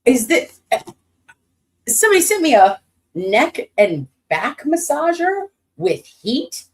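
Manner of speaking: real delight at an unexpected gift; excited surprise. Real, not acted.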